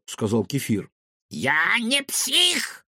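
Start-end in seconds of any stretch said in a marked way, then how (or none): 1.3-2.8 high, slow, indignant protest; deeply insulted denial; offended. Acted. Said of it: "оскорбился Финдершлотц".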